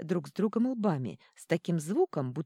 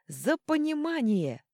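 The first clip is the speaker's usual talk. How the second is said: higher, louder, slowed roar of a crowd; roaring toast; 11 semitones higher, 5 dB louder, slower than usual. Acted. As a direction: bellow it like a crowd of dwarves. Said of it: "взревели гномы". (гномы ревут тост)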